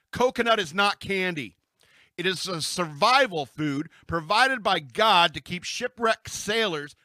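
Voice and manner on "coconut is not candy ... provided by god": loud emphatic rant. Real, not acted. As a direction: declare it like a fed-up ranter. Rant against coconut candy.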